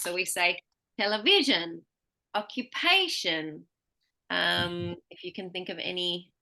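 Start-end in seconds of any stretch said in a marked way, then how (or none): 1.0-1.8 VI stands out in television; stress before the suffix. Shown as a demonstration. Teacher modelling suffix stress, VI strong in television. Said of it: "always has the most stress". 2.3-3.7 PA drawn out in occupation; stress before the suffix. Shown as a demonstration. Teacher modelling suffix stress, PA strong in occupation. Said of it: "always has the most stress".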